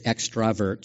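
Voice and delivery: "extrovert" said with an A in the middle, extra-vert; technically correct pronunciation. Shown as a demonstration. Word person settles the vote, "extrovert" with an A. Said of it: "it technically is extrovert".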